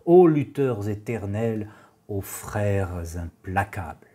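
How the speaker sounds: declaimed verse, phrase by phrase; poetry recitation. Acted. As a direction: recite with weight on each opening, settling at line ends. Reads Baudelaire's poem aloud.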